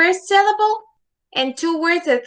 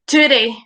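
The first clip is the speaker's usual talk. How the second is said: "today" as TO-day, weight on the first syllable; wrong stress demo; 4 dB louder than usual. Shown as a demonstration. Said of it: "it is not today".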